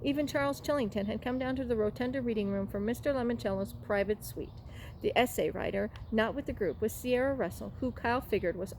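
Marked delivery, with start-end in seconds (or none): none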